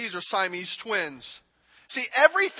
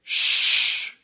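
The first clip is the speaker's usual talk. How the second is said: whispered shh; 4 dB louder than usual. Shown as a demonstration. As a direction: hush her gently. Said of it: "you need to just say".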